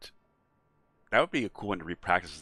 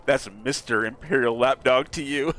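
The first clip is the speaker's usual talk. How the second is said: sassy comeback; 4 semitones higher, 5 dB louder than usual. Pretend. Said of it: "really wanted to say".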